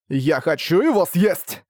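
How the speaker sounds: slow, manic gleeful declaration; laughing madly. Acted. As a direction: savor it with crazy glee. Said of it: "Безумно рассмеялся Арк".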